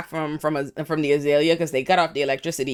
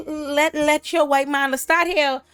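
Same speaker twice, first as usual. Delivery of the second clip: mock condescension; 8 semitones higher, slower than usual. Fenwick's taunting reply.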